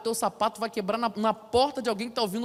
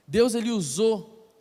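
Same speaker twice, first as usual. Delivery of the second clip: ordinary delivery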